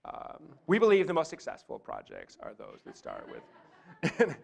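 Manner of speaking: low creaky youthful drone; demonstrating exaggerated vocal fry, creaking through the phrases. Shown as a demonstration. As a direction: let the voice drop into creaky fry. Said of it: "Or vocal fry".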